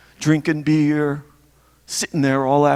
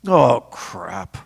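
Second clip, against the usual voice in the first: imitated dad, pitched up in reaction; dad's reaction; 6 semitones higher than usual. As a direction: play dad hearing the plan, voice raised in pitch. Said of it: "He would say".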